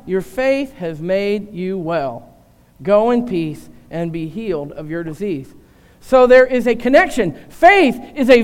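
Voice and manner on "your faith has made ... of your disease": lower, softer, gently healing words; tender reassurance. Retold or imitated. Jesus to the healed woman, tenderly reassuring. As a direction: send her off healed, low and soft.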